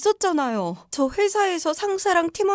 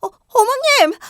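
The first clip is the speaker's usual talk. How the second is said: calling out; 8 semitones higher, 9 dB louder than usual. Acted. Rushing home, calling for mother-in-law.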